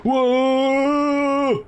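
surprised whoa. Real, not acted. Falling off the mountain in game.

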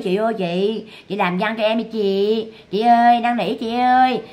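slow, drawn-out mock begging; half-hearted imitation of pleading. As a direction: plead slowly, as if imitating a beggar.

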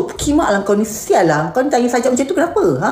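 fast indignant telling-off; mock angry rant. Streamer voices scolding the questioner, fast. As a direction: hurl the insult then demand why, quickly. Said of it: "kau marah orang yang tanya tu".

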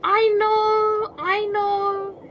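high, loud burst of excitement; excited. Real, not acted. Gamer suddenly excited while searching.

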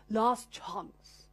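London English accent, announced as a demo; hammed-up English accent. Shown as a demonstration. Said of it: "My London accent".

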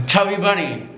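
talking through stuffed cheeks; mouth full. Real, not acted. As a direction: say it around a mouthful. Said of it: "How many is in your mouth?".

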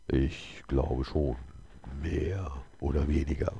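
slow, drawn-out answer with long pauses; hesitant stranger. A narrator's reading. The stranger answers the holy man, slow and hesitant. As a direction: answer slowly, weighing each word.

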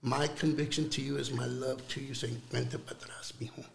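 soft, hushed invitation to come home; Holy Spirit softly welcoming a son back; tender Holy Spirit. Acted. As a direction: quietly coax a lost son back. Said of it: "the Holy Spirit comes and he says".

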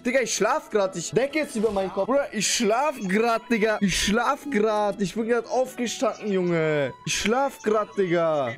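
drawn-out, feigned sleepy protest; pretending to sleep. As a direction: play someone just woken up, slowly. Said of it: "ich sag, ich schlafe".

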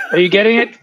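squeaky laugh bursting through; giggling at how absurd the story gets. Real, not acted. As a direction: ask it while cracking up.

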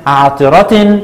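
عطرة ending "-tin", "ʿaṭiratin"; tanween with kasra. Shown as a demonstration. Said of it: "وعند التنوين بالكسر قلنا".

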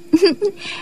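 brief soft giggle; laugh through tears. A narrator's reading. Disciple stops crying at the leader's joke, soft giggle. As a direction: burst into a small, quiet laugh. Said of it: "nín khóc bật cười".

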